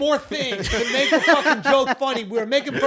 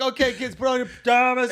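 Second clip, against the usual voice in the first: parent voice. Retold or imitated. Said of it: "never had your parents be like".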